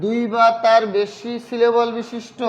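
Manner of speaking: slow, word by word with long pauses; slow dictation. Real, not acted. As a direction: say it piecemeal as you write it out. Writing out the definition while saying it. (লিখতে লিখতে ধীরে ধীরে থেমে থেমে বলা)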